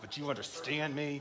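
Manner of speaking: very quiet, hushed scolding through clenched teeth. Acting out a parent warning a fussy child: imitating a parent talking through clenched teeth. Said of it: "like with our teeth closed".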